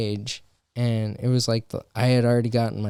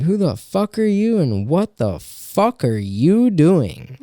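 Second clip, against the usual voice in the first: higher, slowing indignant question; incredulous; 5 semitones higher, 4 dB louder than usual. Retold or imitated. Comic recalling his silent reaction, incredulous. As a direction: demand it, baffled and offended. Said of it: "I was just like".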